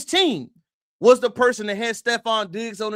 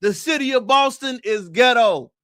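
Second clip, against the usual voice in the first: shouted declaration; 2 semitones higher, 3 dB louder than usual. Real, not acted. Host to viewers, repeating his verdict as a full shout. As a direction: shout the whole line out loud.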